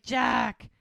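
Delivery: retold exasperated protest; mock scolding.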